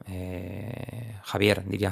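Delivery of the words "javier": "Javier" with English-accented final R; English accent on a Spanish name; native English speaker. Shown as a demonstration. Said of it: "como diría un nativo".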